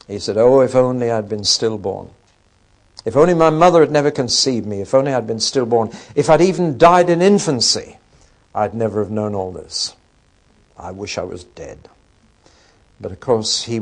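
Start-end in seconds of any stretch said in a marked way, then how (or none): 0.4-11.9 cries out in anguish, then sinks to a near-silent wish; a loud despairing cry that fades to a hushed wish for death; anguished lament. Retold or imitated. Job cursing his birth, loud anguish fading to a hush. Job curses the day he was born.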